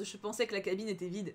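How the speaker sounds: usual speaking voice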